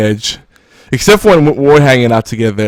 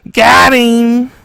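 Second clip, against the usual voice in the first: higher, louder gotcha; triumphant tease; 12 semitones higher, 5 dB louder than usual. Pretend. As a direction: crow it like a winner. Teasing triumph after joke.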